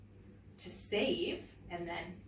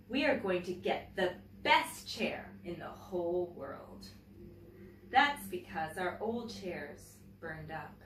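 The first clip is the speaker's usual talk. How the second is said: put-on reading a picture book aloud to children; gentle, clear storytelling for young listeners; story reading. A narrator's reading. Teacher reading a picture book to her class, storytelling voice.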